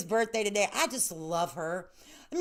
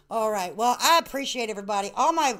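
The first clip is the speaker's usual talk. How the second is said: normal talking voice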